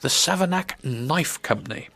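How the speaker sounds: deliberately slowed business name; slow, careful name. Real, not acted. Presenter naming interviewees' tricky business, slow and careful. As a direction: get each word out separately, without tripping. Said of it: "I'm gonna say it slowly".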